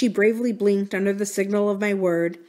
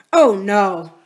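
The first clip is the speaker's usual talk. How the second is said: firm and louder refusal; a decided, louder no; decisive; 7 dB louder than usual. Acted. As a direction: shut the idea down firmly. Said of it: "said Missus Gross with decision".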